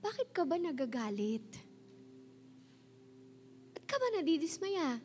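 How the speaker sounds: measured delivery with long pauses; preaching God's words. Acted. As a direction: lay out each question slowly as God speaking. Voices the Lord's words.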